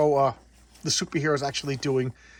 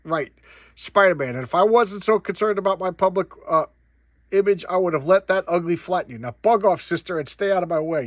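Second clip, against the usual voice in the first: a hammed-up gruff rebuke, louder; gruff mock yell; 4 semitones higher, 5 dB louder than usual. Spider-Man snapping at Mary Jane to stay away, gruff mock yell. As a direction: bark it like a tough guy shooing someone off. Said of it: "He, he yells at her".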